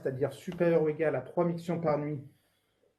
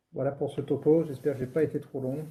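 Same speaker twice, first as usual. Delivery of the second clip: muffled behind an FFP2 mask; through a face mask. Real, not acted. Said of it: "Parler avec le masque F, ah, sous, sous un masque".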